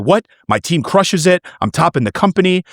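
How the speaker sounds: retold outrage. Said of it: "And I was furious".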